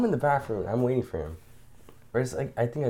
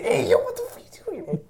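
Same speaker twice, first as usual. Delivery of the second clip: startled yell. Retold or imitated. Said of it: "I was like".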